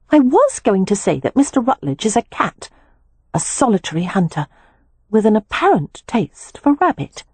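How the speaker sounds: a hint of a younger sister, knowing; lightly voiced Beatrix, pointed. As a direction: Beatrix warning Poppy about Rutledge, lightly voiced and knowing.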